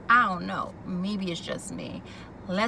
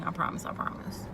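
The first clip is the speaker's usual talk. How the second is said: whispered promise; 3 semitones lower, 5 dB quieter than usual. Retold or imitated. Husband pleading promise quoted.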